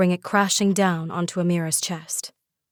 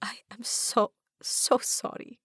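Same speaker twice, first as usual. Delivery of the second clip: grieving whisper; softly whispered sorrow; 3 semitones higher, 6 dB quieter, slower than usual. Acted. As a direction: whisper the apology over the body. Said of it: "I whisper".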